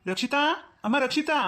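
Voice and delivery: name called with a rising end; calling out. Acted. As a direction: call for her across the house. Uncle calls out for the girl.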